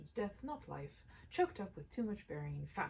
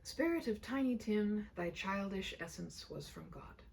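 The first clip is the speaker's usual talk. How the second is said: solemn slow. Acted. Solemn address.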